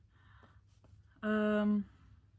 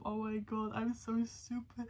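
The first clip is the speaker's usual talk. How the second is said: mild imitation of Camden crying; 4 dB quieter than usual. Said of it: "calling his friends from".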